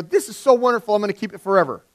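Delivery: high gushing praise; gushing grandparent. Retold or imitated. Grandparent praising a child's craft, high gushing. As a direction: coo over the child's drawing like a doting grandparent. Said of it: "and they go".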